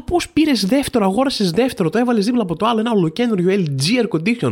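incredulous retort. Retold or imitated. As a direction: needle her with mock disbelief. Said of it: "Και λέω". (δύσπιστη, ειρωνική ερώτηση)

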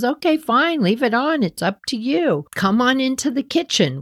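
a hint of a patient little old woman; old lady voice. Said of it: "she goes".

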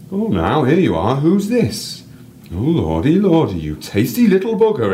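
cheeky northern English guide narrating the crow; North English accent. Acted. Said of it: "random North English accent".

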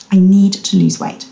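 "need" pressed a little harder; stress on need. Shown as a demonstration. Coach has listeners say it to themselves, stress on "need". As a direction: put the weight on "need". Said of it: "emphasis on the word need".

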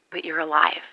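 hushed, breathy whisper. Acted. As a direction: whisper it like a secret. Intimate moment, alone on the radio.

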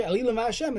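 Elilim and Hashem run together with no pause. Shown as a demonstration. Teacher showing students the wrong reading, no pause between Elilim and Hashem. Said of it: "if you say it together".

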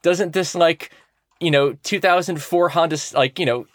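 showing off a prize to a crush; flirty pitch. Pretend. Pitching a car to the Moon.

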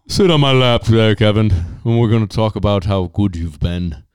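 hammed-up jolly Santa granting a wish. Podcast host as Santa to Kevin, mildly jolly and loud.

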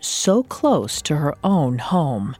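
true crime narrator. A narrator's reading. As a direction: narrate it like a dark documentary. Dramatic true crime cold open.

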